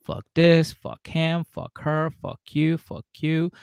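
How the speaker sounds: acted-out drunk tantrum; retold explosion. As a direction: rattle off an angry list, imitating a blow-up. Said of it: "he explodes and he's just like".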